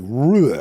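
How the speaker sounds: mumbled blur. Shown as a demonstration. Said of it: "one smashed together word".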